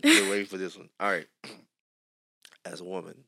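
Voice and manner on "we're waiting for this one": louder insistent repeat of the line; louder teasing repeat. Real, not acted. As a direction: repeat it much louder, pressing. Host repeats the line to tease co-host.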